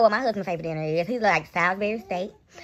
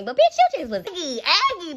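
laughing while calling her aggravating; high amused laughing call-out; 7 semitones higher than usual. Real, not acted. Scene: vlogger laughing about the annoying woman on the live, laughing. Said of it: "she was annoying me".

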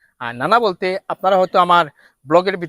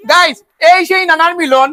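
showman announcement; 9 semitones higher, 6 dB louder than usual. Real, not acted. Announcing grandfather in show voice.

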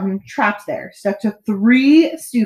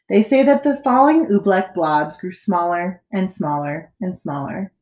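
ordinary delivery, nothing marked

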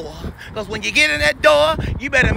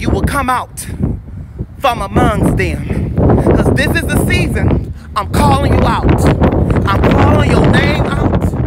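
forceful preaching shout; 5 dB louder than usual. Real, not acted. Preacher warning those he will expose, forceful shout. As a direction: thunder it like a preacher exposing sinners. Preacher publicly calling out evildoers.

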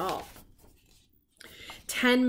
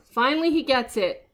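emphatic; 4 semitones higher, 6 dB louder than usual. Acted.

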